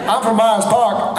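slow Myers Park Southern speech; Myers Park accent. Shown as a demonstration. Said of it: "Can you hear the difference?".

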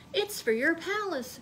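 Gertie's gift. Acted. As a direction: offer it shyly. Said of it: "she said".

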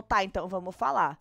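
meek voice. Retold or imitated. Luana gives in to Gisele's dare, mildly meek. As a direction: answer meekly, as a retold quote. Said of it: "com a voz mansa".

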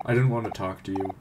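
lightly acted character dialogue read aloud; voicing the game characters. Streamer reading townsfolk and friends' dialogue, lightly acted. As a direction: read each character's lines with light acting.

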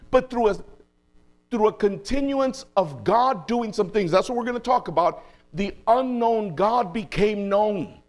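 high, emphatic pulpit delivery slowing to a weighty finish; impassioned preaching. Real, not acted. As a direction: drive the point home to the congregation. Preaches at full force.

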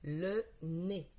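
"Le nez" with the two words held and separated; word sounded out. Shown as a demonstration. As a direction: read "Le nez" word by word, deliberately. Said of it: "Maintenant, nous allons lire les mots". ("Le nez" déchiffré posément, mots détachés)

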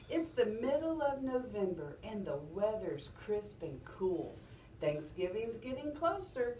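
sing-song recital with rising and falling tune; expressive model reading, pitch rising and dipping. Shown as a demonstration. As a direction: read it to children in a lilting rhythm. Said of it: "how my voice goes up and down".

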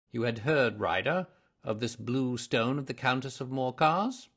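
measured, mildly probing detective; hint of a confident investigator laying out the case; lightly voiced interrogator; lightly voiced detective, questioning.

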